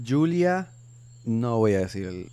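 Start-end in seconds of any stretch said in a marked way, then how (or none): 0.1-0.7 emocionada. Real, not acted. Recuerda el nombre de golpe.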